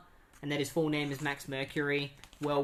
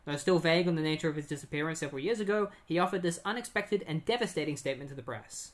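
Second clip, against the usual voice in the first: news report; 2 semitones higher, faster than usual. Retold or imitated. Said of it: "some news going on on T V".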